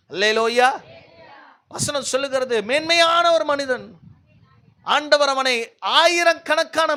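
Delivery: forceful preaching. Real, not acted. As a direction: drive it home to the congregation.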